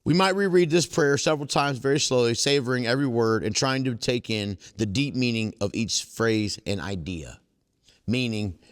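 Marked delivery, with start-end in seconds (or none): 0.0-7.4 reading aloud. Acted. Reading aloud from the book to the meeting. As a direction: read the book passage to the group. Reads passage again.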